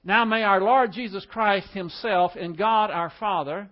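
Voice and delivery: measured Bible reading; scripture reading. Shown as a demonstration. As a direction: read it out as the text of the day. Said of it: "Now, verse sixteen and seventeen".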